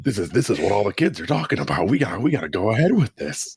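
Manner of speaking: high, excited studio exec voice; hyped movie producer. Retold or imitated. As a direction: pitch it like a pushy producer. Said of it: "movie producers found out about Friends with Benefits".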